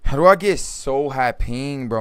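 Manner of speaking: loud annoyed outburst; frustrated shout. Real, not acted. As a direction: yell in frustration at the lag. Frustrated at lag mid-game.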